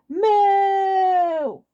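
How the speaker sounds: loud high mock moo; cow moo. Waluigi mooing at Wario, loud high cartoon moo.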